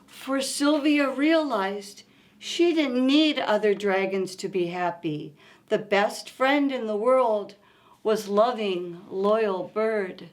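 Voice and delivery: gentle read-aloud storytelling; story narration. A narrator's reading. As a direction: read it like a bedtime picture book. Reads picture book aloud.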